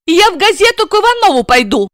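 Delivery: high, fast threat; blurted threat. Acted. Растерянная жена грозит мужу, быстро. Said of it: "пригрозила она".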